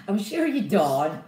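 slow, lightly done comic impression; Keith Lemon. Teasing a viewer, light comedian impression. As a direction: draw it out like the comedian. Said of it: "I sound like Keith Lemon".

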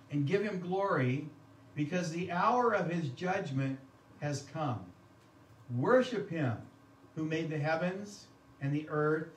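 measured, solemn reading of the verses; scripture reading. Acted. Pastor reading Revelation to the congregation, solemn and measured. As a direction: read the passage to the church with weight. Reads scripture aloud in sermon.

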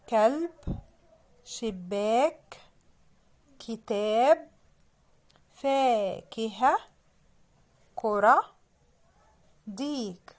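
slow, carefully stretched list words; spelling-out reading. Shown as a demonstration. Teacher reading words for children to sound out, spelling-out reading. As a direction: read word by word with clear pauses. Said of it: "تعالوا نقرأ كلمات عشان نعرف برضو نستهجى".

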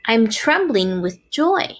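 slow, happy pig voice; joyful. Acted. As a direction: say it glowing with joy. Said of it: "said Wilbur".

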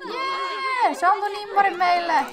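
high, shouted celebration; excited cheer. Real, not acted. Player celebrates getting an autograph, excited cheer.

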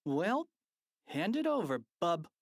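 bossy. A narrator's reading. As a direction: boss the grown-up around. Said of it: "George instructed".

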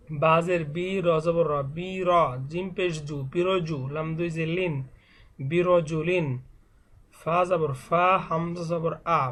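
measured letter-by-letter Quran primer reading; spelling drill recitation. Shown as a demonstration. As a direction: recite each spelling, then join the syllables. Spells Arabic words aloud as drill. (বানান করে টেনে টেনে পড়া)

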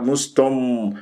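مستم with the dad overworked and held; exaggerated articulation. Shown as a demonstration. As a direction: overdo the mouth movement on مستم as a mistake. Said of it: "لا أسوي".

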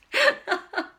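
high, loud burst of laughter; helpless high giggle; breathless laugh. Real, not acted. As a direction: laugh out loud at yourself, short of air.

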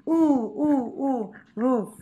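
roof with a long "oo". Shown as a demonstration. Teacher drilling the vowel for pupils, long U. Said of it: "U dài nhá".

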